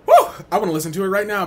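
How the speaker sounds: fast, loud excited burst; excited whoop. Real, not acted. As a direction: hype it up fast. Excited outburst.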